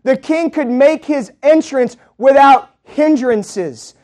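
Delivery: "without hindrances" stretched out slowly, word by word; slow down and lean on "without hindrances"; slow emphatic repeat. Acted.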